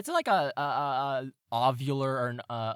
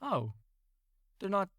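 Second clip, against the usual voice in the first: louder, higher fretting cat voice; worried cat; 4 semitones higher, 6 dB louder than usual. Acted. Dim cat frets the intruders drowned, raised and loud. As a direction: muse anxiously as a cat. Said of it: "And the other cat goes".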